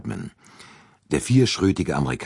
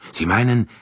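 sharp, louder, higher question; surprised; 8 semitones higher, 6 dB louder than usual. Acted. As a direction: caught off guard, pushing the question out. Sudden realisation about the pipe cleaner.

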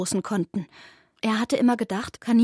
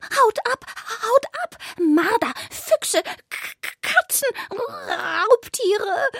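panicked rabbit; 13 semitones higher, slower than usual. A narrator's reading. Rabbit screams at the two cats to leave. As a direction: shoo the predators away in panic.

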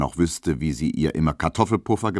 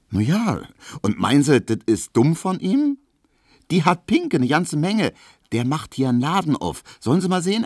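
lightly voiced Berlin landlady, higher; chatty Berlin landlady, pitched up; landlady surprised by a fancy visitor, higher chatter; Frau Piesecke; 11 semitones higher, 4 dB louder than usual.

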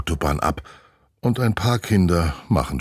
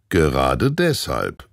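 dry teacher; 2 semitones lower, slower than usual. Acted. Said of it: "sagt Herr Klodwig".

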